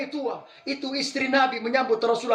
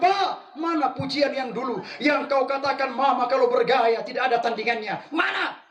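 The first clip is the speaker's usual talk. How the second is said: wife demands her husband's old compliments, mock shout; mock demanding wife. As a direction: press him for the old praise. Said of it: "sebentar pulang panggil suaminya".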